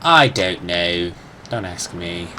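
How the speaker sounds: put-on a light, offhand British accent, slow on I don't know. Gamer shrugging at his own driving, light mock British accent. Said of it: "Don't know why I did that in a British accent".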